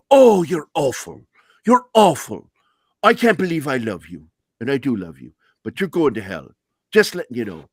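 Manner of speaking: hammed-up Dublin priest's mock outrage; Irish priest. Godfather from Dublin teasing him, loud Irish accent. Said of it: "an Irish priest from Dublin".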